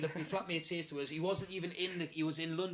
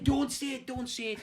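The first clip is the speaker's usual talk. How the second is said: high-pitched retold protest; urgent, high "stop right there"; alarmed plea; 8 semitones higher, 3 dB louder than usual. Pleading with flatmate about the new lodger, alarmed.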